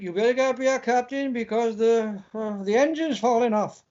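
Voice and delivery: lightly acted Welsh engineer calling the captain; mock report in a Welsh lilt; Welsh starship officer. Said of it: "and then this voice going".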